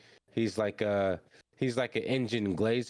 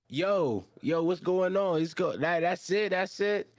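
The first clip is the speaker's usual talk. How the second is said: alarmed shouting; 9 semitones higher, slower than usual. Retold or imitated. Everybody yelling at the exploding arm in alarm. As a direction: freak out as the arm goes boom.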